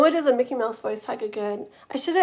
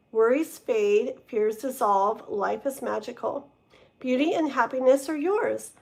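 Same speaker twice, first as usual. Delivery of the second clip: reading aloud. Acted. Reading card meaning from book.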